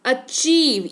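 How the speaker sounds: "अचीव" with a long, weighted ची; stressed long ई. Shown as a demonstration. Teacher shows the ई vowel, stressed demo. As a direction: lean on the ई in "अचीव". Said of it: "ईकार की मात्रा का इस्तेमाल हो रहा है".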